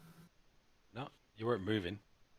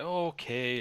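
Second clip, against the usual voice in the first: deflated; 6 semitones higher, 3 dB louder, slower than usual. Acted. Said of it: "looks quite deflated and is like".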